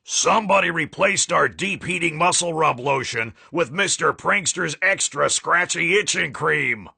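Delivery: angry coach. Acted.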